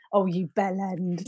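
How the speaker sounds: slow, fond teasing "bell end"; slow fond jibe at a friend who fell over; affectionate insult. Retold or imitated. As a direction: tease a mate like giving a little hug. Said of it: "I never mean it in an aggressive way".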